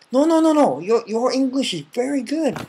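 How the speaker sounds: very high, rushed no no no; flustered denial. Retold or imitated. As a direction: protest the praise politely. Japanese person protesting a compliment.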